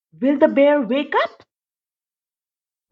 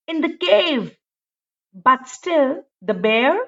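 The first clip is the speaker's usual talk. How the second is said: put-on measured read-aloud for young children; gentle classroom storytime narration; storybook reading; slower than usual. A narrator's reading. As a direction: read it like a bedtime picture book. Teacher reads picture book aloud.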